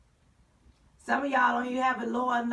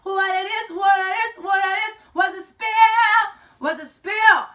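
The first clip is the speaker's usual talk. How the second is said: hyped greeting; 4 semitones higher, 4 dB louder, faster than usual. Acted.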